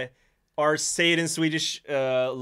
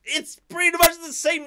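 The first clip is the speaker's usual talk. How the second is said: indignant; 5 dB louder than usual. Retold or imitated. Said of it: "I was like".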